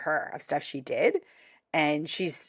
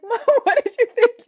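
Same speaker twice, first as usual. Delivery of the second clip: put-on young Barbara, eager; 8 dB louder than usual. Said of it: "She's like".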